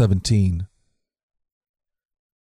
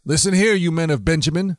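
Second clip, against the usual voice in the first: raised, higher-pitched king calling out; shouting king; 5 semitones higher than usual. Acted. Saul calls out to his officers, a mild mock shout. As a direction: call his officers to attention. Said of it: "Saul shouted to his officers".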